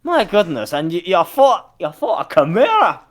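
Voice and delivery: astonished. Acted. Astonished NPC reacting.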